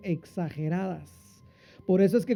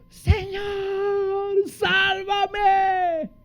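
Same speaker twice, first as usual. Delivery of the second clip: high frantic cry for help; panicked cry; 12 semitones higher, much slower than usual. Retold or imitated. Preacher voicing Peter sinking, high panicked cry. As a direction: cry out like a man sinking in the sea. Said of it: "y gritó".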